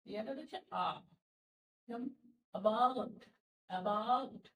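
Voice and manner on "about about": "about" starting on an open "আ" sound; unstressed "আ" onset. Shown as a demonstration. Teacher showing example word, "about" begun with "আ". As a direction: model "about" slowly as a citation word. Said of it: "সাউন্ডটা আ এর মতো".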